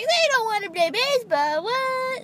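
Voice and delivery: mock baffled kids. Vlogger mocks other kids puzzled by refusal, high and incredulous. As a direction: squeak out the disbelief.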